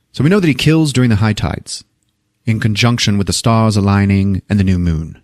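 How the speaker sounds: a touch of British detective, explaining; hint of Oxford English; lightly done British accent. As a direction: lay out the theory in light British. Voices Durkin, Oxford educated detective.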